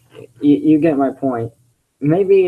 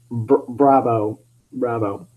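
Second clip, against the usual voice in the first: sarcastic bravo; 3 semitones lower, slower than usual. Real, not acted. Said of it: "I can't clap my hands loud".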